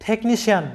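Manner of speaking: টেকনিশিয়ান with the ci said as sh; model pronunciation. Shown as a demonstration. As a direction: say টেকনিশিয়ান with a sh sound in the middle. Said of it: "এরকম হবে উচ্চারণটা".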